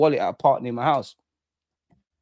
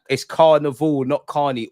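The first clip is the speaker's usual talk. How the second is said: CARNIVAL pushed louder, "not carny" dropped back; corrective stress on carnival; 4 dB louder, slower than usual. Real, not acted. Streamer correcting the chat's word, stress on "carnival". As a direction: hit "carnival", then dismiss "carny".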